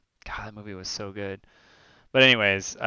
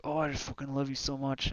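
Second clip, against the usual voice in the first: imitating her tic; 5 semitones higher, 3 dB quieter than usual. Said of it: "and she's like".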